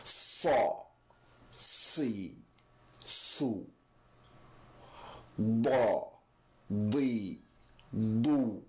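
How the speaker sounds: Sa, Da, Ta, Va each said thick and full; heavy letters drill. Shown as a demonstration. Teacher demonstrating all four heavy letters again. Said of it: "I'll demonstrate for you one more time".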